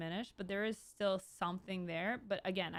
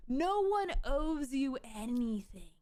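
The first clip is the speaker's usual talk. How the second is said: slow, louder smug lecture; mock cold commenter; 4 semitones higher, 4 dB louder than usual. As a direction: drawl it like a cold know-it-all. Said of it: "That's what everyone said".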